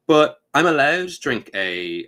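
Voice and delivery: whiny protest. Retold or imitated. Rules-lawyer player protesting.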